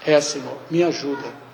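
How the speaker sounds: low, soft plea to the Lord; quiet prayer for help; murmured prayer. Shown as a demonstration.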